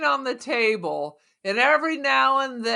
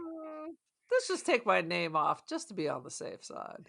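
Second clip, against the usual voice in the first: imitated cautious actors; 3 semitones lower, 11 dB quieter than usual. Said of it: "They're like".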